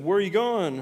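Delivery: high, loud mock interrogation; acted cop's question. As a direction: demand it, imitating a cop stopping a kid. Retold police officer questioning a child.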